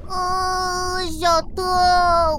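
woozy and slow after the crash; dizzy. Acted. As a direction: drag the words like the head is spinning. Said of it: "我的头好晕哦".

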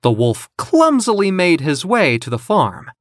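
ordinary delivery

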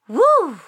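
loud, high wind howl; whooshing wind. A narrator's reading. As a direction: blow like a tornado. Sneeze becomes a tornado.

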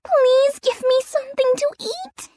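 pitiful pleading. Acted. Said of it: "pitifully knocked".

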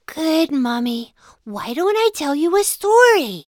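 drowsy, trailing voice; barely awake, heavy-eyed; sleepy. Acted. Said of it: "sleepily said".

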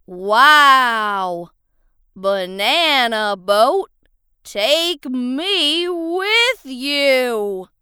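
goofy clown voice; silly clown. Acted. Potato begs to join.

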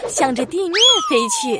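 usual speaking voice

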